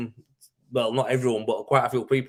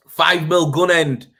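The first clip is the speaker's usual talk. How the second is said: reading out a comment; 5 semitones higher, 9 dB louder, slower than usual. Real, not acted. Reading a viewer comment aloud.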